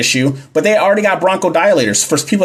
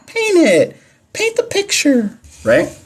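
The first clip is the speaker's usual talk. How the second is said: high urging call; 13 semitones higher, slower than usual. Real, not acted. Urging students to imagine patient.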